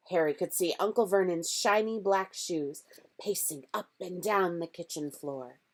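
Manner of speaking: plain reading voice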